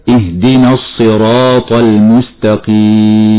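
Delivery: slow, the alif after ر in الصراط held two counts; careful Quran recitation; two-count madd. Shown as a demonstration. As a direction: stretch the ا in الصراط for two beats. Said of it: "فتمد وصلا حركتان هكذا".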